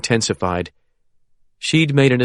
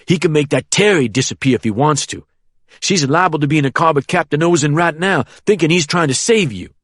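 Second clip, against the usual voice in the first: put-on menacing young man; 5 semitones higher, faster than usual. Harold taunts Caitlin.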